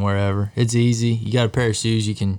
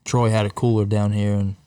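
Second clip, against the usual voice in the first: talking around an ice cube; words round a cube of ice; ice in mouth. Real, not acted. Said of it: "You got an ice cube in your mouth".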